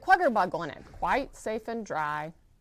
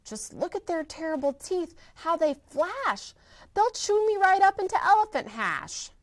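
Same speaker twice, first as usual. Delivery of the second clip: higher, anxious pleading elephant; worried Horton, raised voice; fearful elephant; 5 semitones higher than usual. Acted. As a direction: beg your way out of the swim. Horton pleads about crocodiles.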